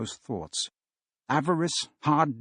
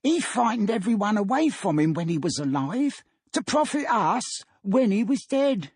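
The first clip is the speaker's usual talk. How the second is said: put-on higher, thin old crone's voice; a grasping old woman sneering at the dead man; gloating old woman; 9 semitones higher than usual. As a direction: relish the miser's death in a cackly old voice.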